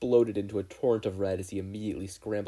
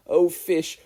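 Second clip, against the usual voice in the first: loud, high startled cry; startled yelp; 8 semitones higher, 12 dB louder than usual. A narrator's reading. Mikumo cries out as the bottle explodes, startled.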